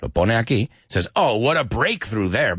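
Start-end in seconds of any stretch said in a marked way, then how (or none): 1.2-2.6 mildly sarcastic mock admiration; acted dry dig at someone. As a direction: feign being impressed, with light sarcasm. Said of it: "And Alan sarcastically".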